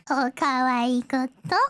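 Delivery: a hint of a slow, low anime voice; Paimon voice. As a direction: lightly put on a character voice, drawn out. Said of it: "I've gotta do it in the Paimon voice".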